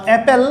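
"অ্যাপেল" sounded out for its opening vowel; pronunciation demo. Shown as a demonstration. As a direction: say "অ্যাপেল" clearly, starting on an open "a" as in cat. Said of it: "উচ্চারণ হচ্ছে". ("অ্যাপেল"-এর শুরুতে স্পষ্ট "অ্যা" উচ্চারণ)

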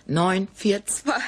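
whispered. Real, not acted. Whispered lottery numbers.

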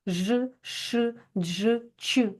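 isolated «ж», «ш», «дж», «ч», one at a time; hushing consonants. Shown as a demonstration. Teacher recalls hushing sounds for pupils, each said separately. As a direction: pronounce each of «ж», «ш», «дж», «ч» alone, as if hissing. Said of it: "Ми шипимо начебто".

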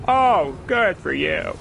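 slow, drawn-out mock praise "Oh, good for you."; mock congratulation, very slow; sarcastic. Real, not acted. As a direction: stretch it out sarcastically. Sarcastic remark at game.

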